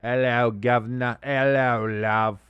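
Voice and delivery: badly faked English greeting; playful, clumsy English accent. Streamer playing on quarterback Love's name, bad English accent. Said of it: "trying to do a very bad English accent".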